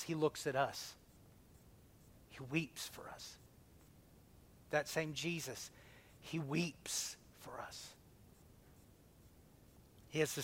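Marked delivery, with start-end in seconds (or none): 2.3-7.9 much softer, tender pulpit hush; soft reverent preacher's murmur. Acted. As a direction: drop right down to move them.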